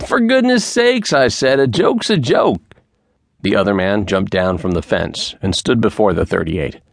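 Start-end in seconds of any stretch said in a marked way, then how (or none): 0.1-2.6 urgent repeated plea. A narrator's reading. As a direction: beg him harder, voice climbing.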